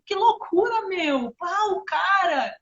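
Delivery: put-on high, loud teen exclamations; teenage slang talk. Mother showing how she talks with her son, imitated teen slang. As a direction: imitate an excited teenager with big pitch swoops. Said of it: "meu filho fala assim".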